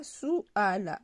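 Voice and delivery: "suala" as sou, then a clear A; vowels pronounced separately. Shown as a demonstration. Teacher explaining U as OU, "suala" said as sou-ala. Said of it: "U se prononce ou, donc sou".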